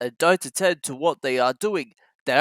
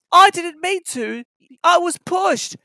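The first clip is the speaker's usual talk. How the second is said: sadly; 12 semitones higher, 5 dB louder than usual. A narrator's reading. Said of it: "said Thomas sadly".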